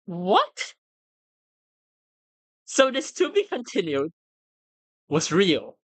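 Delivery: stunned. Real, not acted. Realizing the sequel is real.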